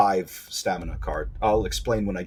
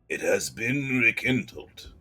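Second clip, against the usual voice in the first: slow, otherworldly voice of an ancient spirit; ancient being voice; 5 dB quieter, slower than usual. Acted. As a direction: drag it out like something old awakening. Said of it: "the ancient tongue speaks".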